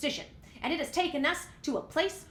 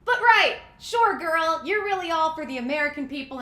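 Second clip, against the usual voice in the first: sarcastic; 6 dB louder than usual. Real, not acted. Host scoffs at Pelosi's claim, loud sarcasm. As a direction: brush her off with mock agreement.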